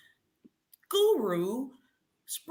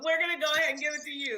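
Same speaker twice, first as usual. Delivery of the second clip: excited; much faster than usual. Real, not acted. Host giving Tanya the win, fast excited call. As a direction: hurry it out, thrilled.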